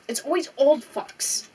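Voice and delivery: bitter. Real, not acted. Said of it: "I'm so bitter".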